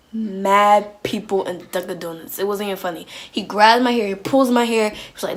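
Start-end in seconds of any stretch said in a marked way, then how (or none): 0.1-2.4 slow repeat. Real, not acted. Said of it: "I'm telling you".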